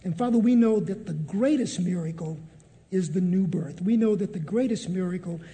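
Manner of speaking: earnest, measured prayer voice; closing prayer. Acted. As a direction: pray the group out with steady conviction.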